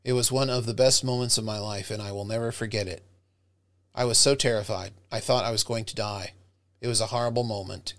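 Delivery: flat, bored monotone reading of a dramatic story; boring flat reading. Shown as a demonstration. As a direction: read it like you don't care at all. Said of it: "you sound like the most boring person".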